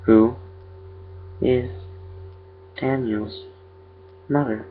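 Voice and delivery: eerie creature, one word at a time. A narrator's reading. Creature repeats its question to the father, haltingly eerie.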